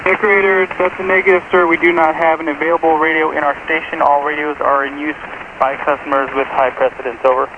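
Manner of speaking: thin, distant radio transmission; crackly military radio. Real, not acted. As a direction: voice heard over a radio link. Interlude station answering over radio.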